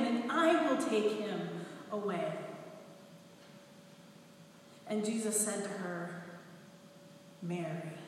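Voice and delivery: measured, solemn reading of the Gospel; scripture reading. Acted. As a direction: read the passage like a lector at Mass. Reads Gospel aloud in church.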